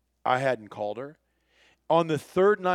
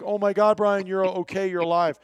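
mock tearful outburst, higher and louder; imitated bawling relief; 5 semitones higher, 4 dB louder than usual. Wife learns husband is alive, imitated tearful outburst. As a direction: blurt relief as if crying, without real sobs. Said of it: "she just breaks out bawling, crying".

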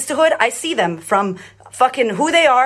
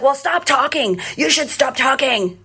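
imitated yelling; 3 semitones higher, slower than usual. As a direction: mimic a bossy stranger telling someone off. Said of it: "yelling at me in this line".

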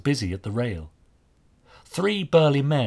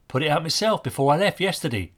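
put-on higher boy's voice, matter-of-fact; simple statement; 5 semitones higher than usual. A narrator's reading. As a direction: answer simply as the young lad. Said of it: "he said simply".

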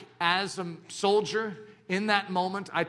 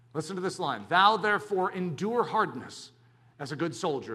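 scripture reading; 2 semitones higher than usual. Acted.

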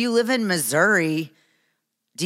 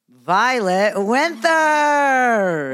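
big announcer-style intro, loud and drawn out; excited; 5 semitones higher, 5 dB louder, much slower than usual. Real, not acted. Host introducing her daughter as the podcast's star, excited. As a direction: stretch the name high and loud like a ring announcer. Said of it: "you sound so excited".

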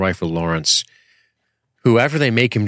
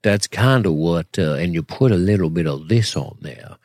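put-on Southern accent. Shown as a demonstration. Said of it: "everybody does this".

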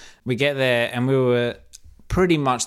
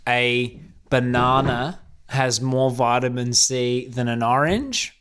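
slow, measured declaration; retold confident pronouncement, evenly paced; with conviction; slower than usual. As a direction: state it slowly as settled fact. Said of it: "say with conviction".

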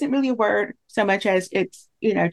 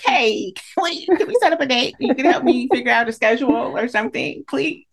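mock pleading. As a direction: beg for help in jest, drawing out the opening. Acted email begging for help.

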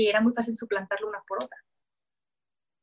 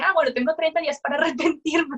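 higher, brighter self-quote that breaks into a laugh; amused retelling, laughing; 5 semitones higher, 3 dB louder than usual. Retold or imitated. Telling her audience about the thirty-day undo, giggling. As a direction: laugh through the loophole you found. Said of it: "Exactamente, digo".

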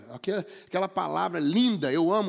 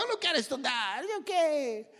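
put-on high, whiny little kid voice; mock a child who won't study; 8 semitones higher than usual. Father imitating his son refusing to study, high and whiny. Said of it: "Meu filho começava".

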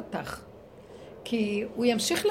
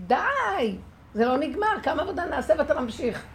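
loud, higher firm scolding; real rebuke; 5 semitones higher, 6 dB louder than usual. Shown as a demonstration. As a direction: give it a real telling-off. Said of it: "נותנים לו גערה אמיתית". (גערה אמיתית, רמה וגבוהה)

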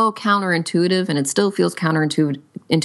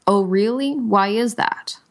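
curious question; 5 semitones higher than usual. Shown as a demonstration. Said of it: "your next question should always be".

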